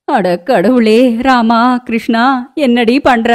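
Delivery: mother-in-law shrieking at the bride; shocked shout. Acted. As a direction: call on the gods in shock. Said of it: "சத்தமா கத்த".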